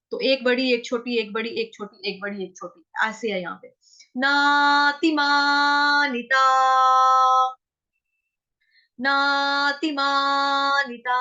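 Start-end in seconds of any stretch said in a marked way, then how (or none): 4.2-11.1 नातिमानिता slow with ति kept short; नातिमानिता long-short rhythm; short ti, quick ma. Shown as a demonstration. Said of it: "माँ फटाफट बोलना है".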